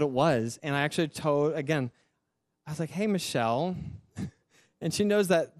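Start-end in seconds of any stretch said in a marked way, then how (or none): 2.9-3.8 calling her name as a lead-in to news; leading, about-to-confess tone. Retold or imitated. Husband about to tell his wife something, leading tone. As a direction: open gently, with something still to tell. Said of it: "that tone that you're like you're about to say something".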